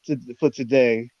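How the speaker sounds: tripping over the words; stuttering. Real, not acted. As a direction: stumble and restart, flustered. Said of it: "I'm stuttering".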